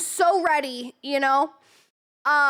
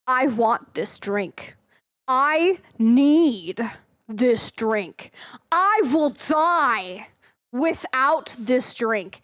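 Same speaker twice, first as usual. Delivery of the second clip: slow, drawn-out melodramatic plea; dramatic pleading; 3 semitones lower, much slower than usual. Retold or imitated. Telling a friend she must have the drink, slow mock pleading. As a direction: beg for it like your life depends on it.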